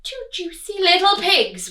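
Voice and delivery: loud, high gloating wolf; a hint of greedy wolf. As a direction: relish the words. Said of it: "Wolf cried".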